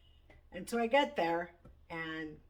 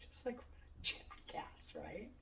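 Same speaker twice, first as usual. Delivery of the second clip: whispered aside; 4 semitones higher, 9 dB quieter than usual. Real, not acted. Telling the listener about a drunk passenger, in a whispered aside. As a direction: lean in and whisper it like a secret.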